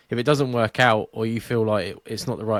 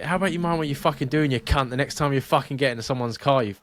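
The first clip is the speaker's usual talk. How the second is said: retold swearing; 3 semitones higher than usual. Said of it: "and I was, like, swearing".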